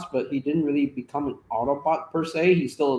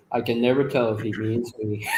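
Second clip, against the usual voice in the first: imitating the line; 5 semitones lower than usual. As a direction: repeat the line with punch on "never". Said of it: "That's pretty good".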